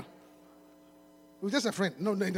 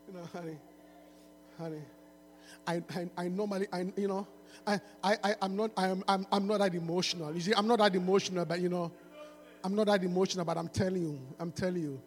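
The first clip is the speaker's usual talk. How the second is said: low, soft, mock seductive lines; smooth-talking rapper; 12 semitones lower, 9 dB quieter than usual.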